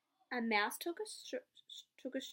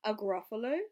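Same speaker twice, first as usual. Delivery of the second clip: puzzled fox; 7 dB louder than usual. Acted.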